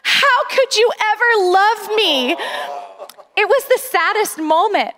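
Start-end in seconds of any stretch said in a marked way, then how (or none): 0.0-2.3 put-on mildly wailing, higher child's plea; imitated crying. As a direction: plead like a tearful daughter, lightly acted. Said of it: "And she's just crying".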